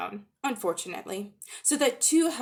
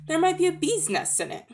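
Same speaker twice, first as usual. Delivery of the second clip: higher, eager bear hoping for honey; 9 semitones higher than usual. Acted. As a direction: bear licking his lips at the thought.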